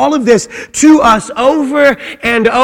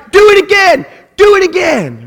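put-on excited child's plea; 8 semitones higher than usual. Child shouting at dad for another throw, high and eager. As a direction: shout it like a thrilled toddler wanting more.

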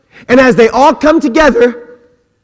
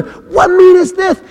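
much higher, astonished question; amazed crowd; 10 semitones higher than usual. Acted. Crowd at Pentecost asking each other, astonished. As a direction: ask it in sheer wonder.

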